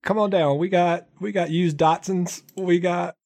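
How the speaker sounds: game show host. Pretend. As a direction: sell it like a local TV car lot ad. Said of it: "sound like it's your alias".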